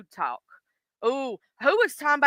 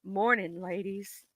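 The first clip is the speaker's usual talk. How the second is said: deepened voice; 3 semitones lower, 10 dB quieter, slower than usual. Pretend. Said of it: "I tried to deepen it up".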